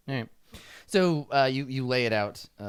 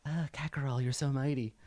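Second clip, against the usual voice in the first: fawning followers; 6 dB quieter than usual. Acted. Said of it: "the rest are just like".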